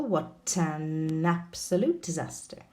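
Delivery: "What an absolute disaster" said slowly, each linked sound drawn out; slow model reading. Shown as a demonstration. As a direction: read it slowly so the links are heard. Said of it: "We've got an example".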